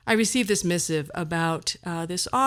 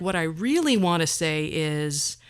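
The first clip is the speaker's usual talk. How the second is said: 1 slow prompt phrase; 3 semitones lower than usual. Shown as a demonstration. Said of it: "you can write something like".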